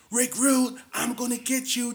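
high, loud villain taunt; mustache twirling villain. Retold or imitated. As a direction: sneer the threat up high. First taunt, Piper as heel.

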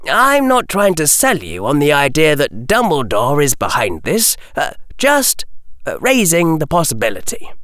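a lightly voiced boy pushing back politely; steady young voice laying out terms; Harry's voice. Harry hedges.

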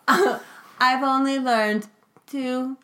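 slow, flat robot delivery; droning like a machine. Acted. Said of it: "in my robot voice".

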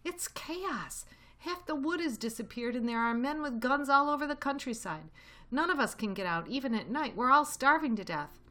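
high-pitched urgent report; excited. A narrator's reading. Badger tells Fox about the hill, excited and high. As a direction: pour out the bad news in high agitation. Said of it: "Badger said excitedly".

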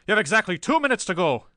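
fast, loud, high threat; menacing ultimatum. A narrator's reading. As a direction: threaten him with a deadline, urgently. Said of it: "rigid and menacing".

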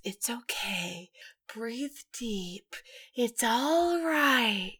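whispered, slowing hush, very soft; soothing. Retold or imitated. Garth putting Dean under with the mask, soothing. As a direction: imitate lulling someone under in a gentle whisper. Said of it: "Garth is soothing Dean like a child".

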